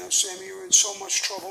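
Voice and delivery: a high pitying coo from a fretting wife; wife's worried pity. Retold or imitated. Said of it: "and she's saying".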